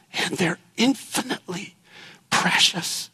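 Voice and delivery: infinitely precious, breathed quietly; hushed. Real, not acted. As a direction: drop to a near whisper on precious. Tender emphasis on worth.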